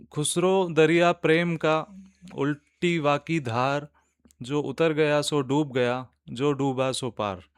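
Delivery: measured doha recital, phrase by phrase; poetry recitation. Acted. Host reciting a doha for podcast listeners, measured poetry recitation. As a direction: recite the couplet with pauses between half-lines.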